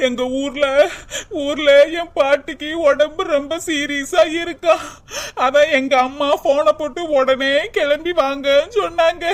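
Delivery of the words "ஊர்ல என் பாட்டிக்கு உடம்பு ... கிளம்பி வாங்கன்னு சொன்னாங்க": put-on sobbing through the words; wife fakes crying to her husband, put-on sobs. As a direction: fake tears to get leave to go home. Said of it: "நம்மளோட நடிப்பை பார்த்து".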